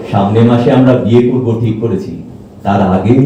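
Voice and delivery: low-pitched, earnest voice; earnest confiding. Acted. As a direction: confide seriously in your partner. Serious talk before their wedding.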